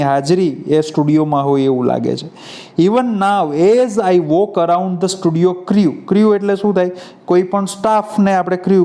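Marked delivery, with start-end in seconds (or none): 2.8-5.9 text reading. Acted.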